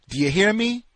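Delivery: loud, high, furious demand; angry shout. Acted.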